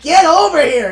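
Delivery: loud, high yell at the enemy; shouted call. Retold or imitated. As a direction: bellow it across the map. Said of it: "I was like".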